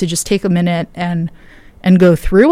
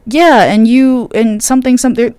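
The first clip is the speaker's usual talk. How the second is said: mocking the caller; 5 semitones higher, 4 dB louder than usual. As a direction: parody the caller's nonsense. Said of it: "And they're like".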